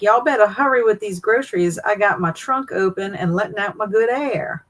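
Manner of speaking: hint of a countrified Southern accent; Southern mama. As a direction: play your Southern mama hollering at the grocery workers. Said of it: "I'm turning into my Southern mama".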